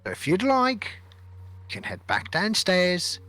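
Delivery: curt, dismissive sea captain; grumpy captain. Acted. Captain brushing off the prince, grumpy and dismissive. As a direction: talk down to the prince like a cranky captain.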